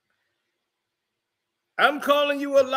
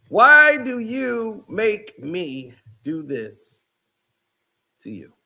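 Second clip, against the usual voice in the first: slow, drawn-out, louder rebuke; slow emphatic; 3 dB louder, slower than usual. Real, not acted. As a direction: stretch every word like a weary scold. Rebuke repeated slower.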